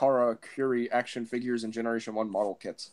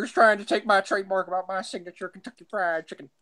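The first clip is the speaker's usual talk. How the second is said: high-pitched hammed-up indignant rant; loud, high mock fury, rising on the curse; mock outrage; 8 semitones higher, 6 dB louder than usual. Co-host playing a trademark owner, mock outraged.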